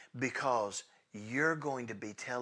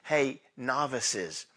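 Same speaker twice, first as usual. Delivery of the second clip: teasing; much slower than usual. Acted. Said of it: "it means children".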